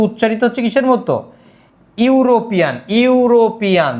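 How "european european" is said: European said with clear opening "iu"; pronunciation demo. Shown as a demonstration. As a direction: sound out European, leading with "yu". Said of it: "এটাকে যদি উচ্চারণ করি".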